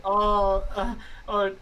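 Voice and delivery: mock grief, milking every oh; hammed-up wailing. Arlo wails for Doug by the stairs, hammed-up lament. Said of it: "like, cry and wail".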